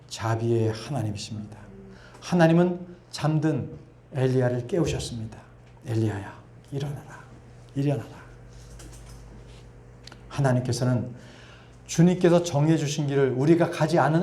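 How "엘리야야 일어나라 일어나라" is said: gentle waking call. Acted. God gently wakes Elijah.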